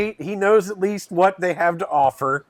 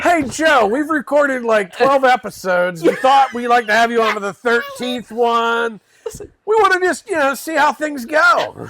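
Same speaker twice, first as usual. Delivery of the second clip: playful pitched-up invite; mock phone invite; 4 semitones higher than usual. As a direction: pretend to call a guest casually.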